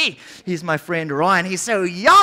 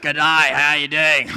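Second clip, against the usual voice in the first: put-on Australian accent; 3 semitones lower than usual. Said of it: "I'm an Australian cricketer".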